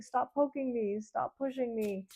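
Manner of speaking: high, fast, put-on fretful voice; imitating a reluctant person. Tarot reader voicing a hesitant querent, high and fretful. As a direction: squeak it out like someone who doesn't want to move on. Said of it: "It's like".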